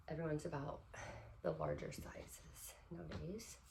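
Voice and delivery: short of breath while talking. Real, not acted. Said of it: "sound like I'm running out of breath".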